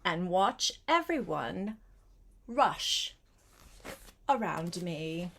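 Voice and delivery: gentle picture-book read-aloud; reading to a child. A narrator's reading. Grandparent reading a picture book to Gretel, gentle.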